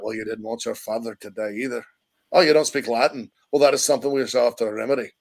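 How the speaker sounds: imitated Scottish uncle, understated; Uncle Argyle. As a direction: answer as a lightly voiced Scottish uncle. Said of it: "It's a great Scottish actor there".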